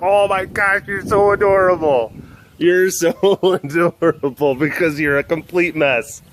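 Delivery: doting pet-owner coo; gushing adoration. Retold or imitated. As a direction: gush fondly at an adorable cat. Gushing over the cat, acted.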